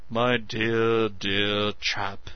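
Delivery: mocking imitation of Meadows; vicious mimicry. A narrator's reading. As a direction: mimic him with a sneer. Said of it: "unable to keep himself from vicious mimicry".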